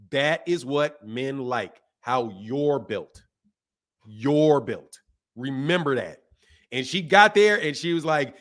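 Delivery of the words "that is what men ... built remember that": low, slow and deliberate; slow fatherly emphasis. Retold or imitated. Father telling his daughter to remember, slow and emphatic. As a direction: drive each phrase home, slowly and low.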